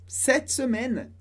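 slow, drawn-out French demonstration; slow model phrase. Shown as a demonstration. French teacher models the phrase for learners, slowly. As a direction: stretch out both words for learners.

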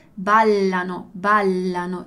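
ballano with a held double l; ballano, double L held long; clear double L. Shown as a demonstration. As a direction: linger on the ll in ballano. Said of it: "la pronuncia della doppia L".

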